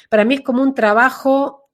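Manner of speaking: ordinary talk, nothing marked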